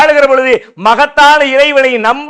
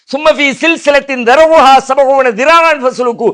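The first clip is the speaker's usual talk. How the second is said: slow Quranic recitation. Acted. Verse recited.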